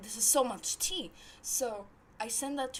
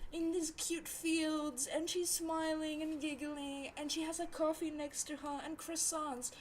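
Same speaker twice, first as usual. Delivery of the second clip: higher and gentler, lightly mocking; mock-sweet description; 4 semitones higher, 4 dB quieter than usual. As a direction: describe the cute scene with fake sweetness. Mocking a cute Instagram story.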